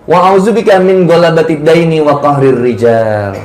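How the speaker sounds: measured Arabic du'a recitation; prayer recitation. Real, not acted. Preacher teaching the debt prayer to congregation, reciting. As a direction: recite the supplication phrase by phrase.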